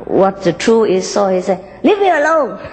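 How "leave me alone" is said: high, giggling leave-me-alone; laughing rebuff. Acted. Embarrassed red sends green off, laughing high. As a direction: push away through a laugh.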